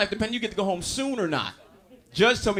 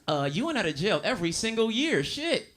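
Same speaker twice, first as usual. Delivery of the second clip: mock apology; 3 semitones higher than usual. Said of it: "looked Taekwon dead in the face and said".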